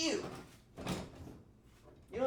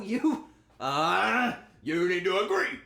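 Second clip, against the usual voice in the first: louder, higher, insistent; loud exasperated push; 5 semitones higher, 9 dB louder, slower than usual. Real, not acted. To chat, insisting they agree on a topping, loud. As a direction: demand they just agree.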